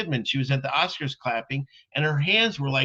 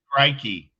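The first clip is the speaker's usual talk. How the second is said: mock Australian exclamation; hammed-up Aussie cry; Australian accent. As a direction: put on a playful Australian accent. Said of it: "Can you do an Australian accent".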